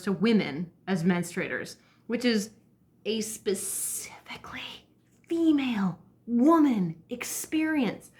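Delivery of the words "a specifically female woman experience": SPECIFICALLY slow and hushed, then "female woman" high and drawn out; emphatic stress. Real, not acted. Vlogger insisting this is women's experience, slow emphatic stress.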